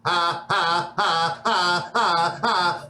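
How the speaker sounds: evenly spaced mechanical "ha"s; robotic fake laugh. Robot minions at the boss's monologue, mechanical fake laugh. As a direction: recite laughter like a machine. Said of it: "not really so much laughing, it's just going".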